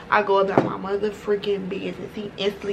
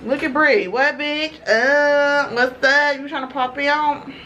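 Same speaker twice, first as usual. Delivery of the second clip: excited greeting; 5 semitones higher, slower than usual. Real, not acted. Spotting her friend Bree, bright excited greeting. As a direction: greet her like you're surprised to see her.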